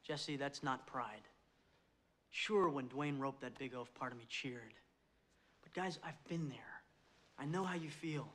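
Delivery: quiet, earnest locker-room talk; halftime pep speech. Acted. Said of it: "halftime pep speech".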